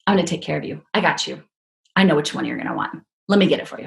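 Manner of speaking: lightly voiced server, low and confiding; reassuring server. Drive-thru guy helping her pick salsa, reassuring. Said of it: "And he says".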